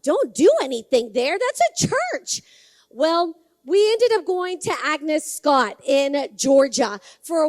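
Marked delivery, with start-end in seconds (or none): 0.0-2.4 can't believe what you just heard; retold disbelief. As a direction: echo it back as an astonished question, voice leaping up at the end. Retold incredulous reaction to tour guide.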